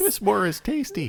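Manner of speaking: put-on very high, dopey kid voice. Questioning an arms seller about the war, Ralph Wiggum voice. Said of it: "Why did you sound like Ralph Wiggum".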